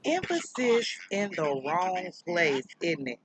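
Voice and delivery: slow, drawn-out mocking mimicry; lightly mocking imitation of a speaker, slowly; Stephen Lett. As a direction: stretch the words out, mimicking a preacher. Mimics the clip just played.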